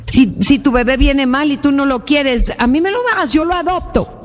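imploring offer, acted without shouting; retold pleading. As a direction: plead with a daughter, pitch climbing. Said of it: "le gritó y le suplicó".

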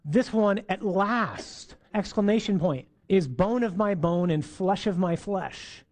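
a first delighted cry, lightly voiced; mild joyful exclamation. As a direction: found at last, slowly savoured. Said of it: "man speaks, and he's like".

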